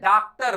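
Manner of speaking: डॉक्टर as "daaktar", open vowel; wrong pronunciation. Shown as a demonstration. Teacher rejecting the error, डॉक्टर as "daaktar". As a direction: say डॉक्टर with "daa" and full r. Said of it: "तो कतई से, कहीं से नहीं है".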